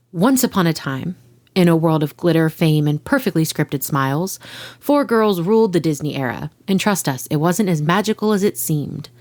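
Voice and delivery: dramatic fairy-tale narration; storytelling voice. Acted. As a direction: read it like a bedtime story opener. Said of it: "do you like my, my storytelling voice".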